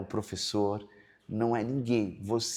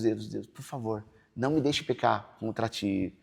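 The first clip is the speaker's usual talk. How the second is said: hushed prayer; slower than usual. Retold or imitated. Father in hospital praying to God, slow and hushed. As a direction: beg God slowly under the breath.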